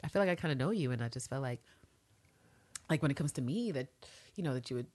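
soft, low, halting admission; mock-tentative murmur full of hedges; Eve's hesitant confession. Voicing a woman admitting she feels she knows her assassin, hesitant and soft. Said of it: "And Eve is like".

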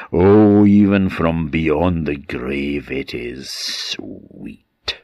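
slow, savouring a dark triumph; a hint of a ghostly villain relishing revenge; possessed gloating. Possessed man gloats over victim.

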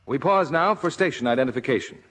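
brisk, crisp network ID; station announcer. Acted.

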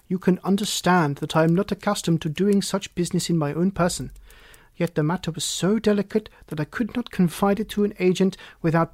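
lightly voiced stately client, emphatic; a hint of a proud monarch explaining himself; earnest King. King justifying his visit to the detective, lightly voiced as earnest.

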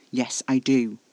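loud, snappish interruption; snapped. A narrator's reading. Casper insisting he must protect, snapping. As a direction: cut in sharply and loudly. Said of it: "Casper snapped".

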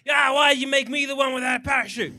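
mock English accent; a light, hammed-up English accent. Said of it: "That's my good English accent".

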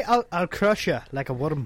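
slow Irish attempt landing in Scottish; mock Scottish threat; Scottish accent. Shown as a demonstration. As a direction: put on a Scottish accent, unhurried. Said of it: "That's Scottish".

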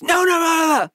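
high, wailing no's, imitated; mock crying refusal. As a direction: whimper the no's like a crying dad. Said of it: "He started crying".

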